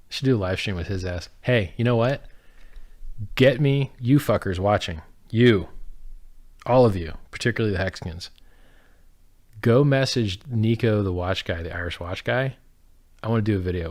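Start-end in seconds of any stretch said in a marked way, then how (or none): 1.4-12.0 loud call to the viewers. Real, not acted. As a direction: shout it out to the chat. Shouting out to stream viewers.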